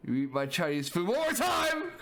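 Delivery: threaten, hammed-up; mild mock threat. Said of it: "let me get a good story going".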